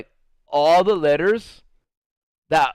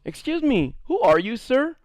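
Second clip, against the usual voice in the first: startled teacher; 7 semitones higher than usual. Retold or imitated. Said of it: "one of the teachers goes".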